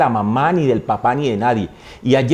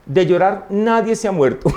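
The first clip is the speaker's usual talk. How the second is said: higher-pitched imitation of an unmoved mother; madre impasible; 7 semitones higher than usual. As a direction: dismiss the crying without raising volume. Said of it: "Mi mamá me miró, dijo". (madre imitada, aguda y sin conmoverse)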